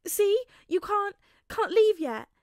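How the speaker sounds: high, loud, laughing through tears; teary laugh. A narrator's reading. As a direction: laugh wetly at him. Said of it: "lets out a rather wet laugh".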